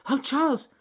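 high, loud rabbit call. Acted. Anxious rabbit hails his friend, high and loud. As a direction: call to the bear in a high squeak. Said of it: "said Ernest Fluffy Rabbit".

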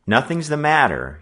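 firm and final; decisive. A narrator's reading. Boy refusing to share his worry, firm. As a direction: shut the question down. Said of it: "he said decisively".

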